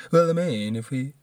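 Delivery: botched attempt at a presidential impression; Trump. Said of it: "my terrible ass Trump accent".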